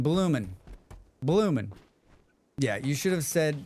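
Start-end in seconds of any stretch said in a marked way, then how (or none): 0.0-0.5 BLOOMIN' said with an N ending, no G; dropped G. Shown as a demonstration. Streamer correcting the word for chat, dropped G. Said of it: "There is no G in bloomin'". 1.2-1.7 BLOOMIN' with an N in place of NG; dropped G. Shown as a demonstration. Streamer shows there is no G in bloomin', dropped G. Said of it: "There is no G in bloomin'".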